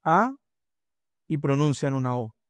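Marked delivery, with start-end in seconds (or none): 0.0-0.4 "A" with the mouth wide open; open A demo. Shown as a demonstration. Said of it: "Ustedes van a pronunciar una". ("A" con la boca abierta)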